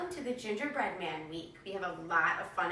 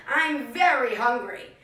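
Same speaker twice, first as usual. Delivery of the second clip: slow, louder hungry cow; 3 semitones higher, 8 dB louder, slower than usual. Acted. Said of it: "mooed the cow".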